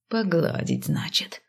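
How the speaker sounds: soft, breathy angry repeat. A narrator's reading. Man repeating her words, angry and soft. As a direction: spit it back under your breath. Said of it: "повторил разозлённо".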